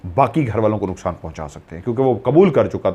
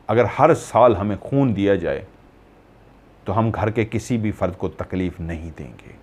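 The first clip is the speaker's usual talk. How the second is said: measured bargaining; 3 semitones lower, 4 dB quieter than usual. Retold or imitated. Jinn states his condition for leaving.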